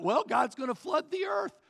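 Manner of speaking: Noah losing patience with the neighbors; mock exasperated shout.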